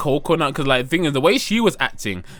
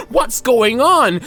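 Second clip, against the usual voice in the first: raised, drawn-out hammed-up shock; mock shocked Natsuo; 8 semitones higher, 4 dB louder, much slower than usual. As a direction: act out walking in aghast, louder and slower.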